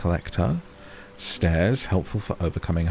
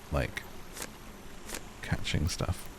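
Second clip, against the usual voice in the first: dropped to a whisper; whispered aside; 4 semitones lower, 10 dB quieter, slower than usual. Real, not acted. Youtuber whispering an aside about censorship. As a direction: whisper it so YouTube won't hear.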